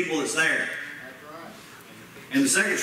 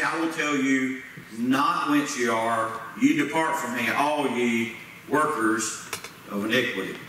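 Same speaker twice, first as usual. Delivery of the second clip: stern judge voice; 4 semitones lower than usual. Acted. Christ's words read in sermon.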